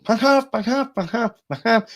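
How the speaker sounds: high, loud hammered "ha ha"; really loud laugh. Retold or imitated. Told by the psychiatrist to shout: really loud, high laughing. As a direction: belt the fake laugh out at full volume. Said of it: "like that, really loud".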